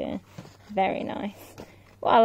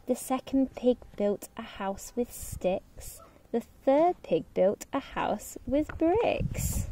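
gentle storytime narration; storybook reading. A narrator's reading. Reading fairy tale to children.

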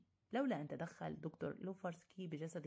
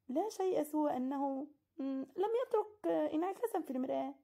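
casual; 9 semitones higher, 7 dB louder than usual. Acted. Narrator casually answering his host's pointed question. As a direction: toss it off as nothing. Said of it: "قلت بلا مبالاة".

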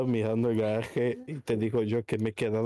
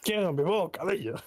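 put-on higher childish whine; whiny mock voice; 5 semitones higher than usual. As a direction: whine it like a spoilt kid. Lloriqueo fingido pidiendo bocadillo. (lloriqueo infantil de broma)

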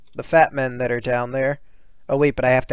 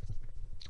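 throat clearing; 18 dB quieter than usual. Real, not acted. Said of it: "throat hurt a little bit".

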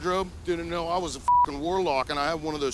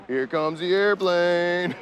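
airplane spoon game; 5 dB louder, slower than usual. Pretend. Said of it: "energy pizza feeding".

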